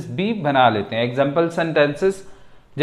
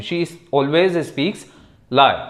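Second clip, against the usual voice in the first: slow model sentence; much slower than usual. Shown as a demonstration. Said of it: "teacher reads model sentence".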